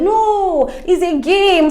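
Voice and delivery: high-pitched, drawn-out mock refusal; acted protest. Acted retort in retold team quarrel.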